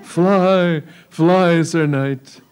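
loud, high, pressing plea to flee; urgent warning. Acted. Damsel urging knight to flee.

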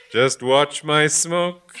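slow, stressing my; drawn-out brag on my; cocky boast. Acted. Augustine boasting slowly.

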